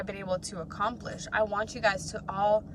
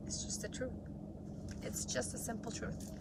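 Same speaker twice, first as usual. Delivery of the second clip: whispering; 14 dB quieter than usual. Real, not acted. Whispered aside in pep talk.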